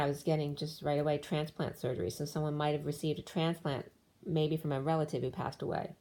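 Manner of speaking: strained, fading hoarse voice; losing voice. Real, not acted. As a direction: talk through a voice that's going. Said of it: "as I'm losing my voice again".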